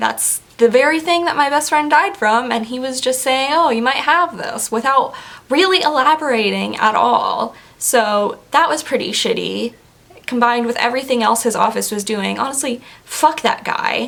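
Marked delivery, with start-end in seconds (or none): 3.5-4.7 play-acted breezy, casual, offhand delivery. Quoting how he mentioned a possible diagnosis all casual-like: mock-casual retelling. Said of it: "all casual-like".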